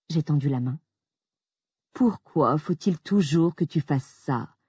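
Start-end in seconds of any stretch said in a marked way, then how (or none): 1.9-4.6 slow, put-upon whine; whining. Acted. Jack groaning at his wife's demand. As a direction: drag it out like a weary complaint. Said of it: "a-t-il gémi".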